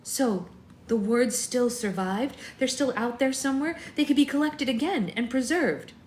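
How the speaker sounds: light up with eager hope; excited. Acted. Bella excited about lost words.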